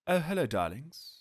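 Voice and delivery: lightly voiced glamorous star, purring; a hint of an old-Hollywood diva; breathy vintage purr. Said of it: "spot of fun with the old sport".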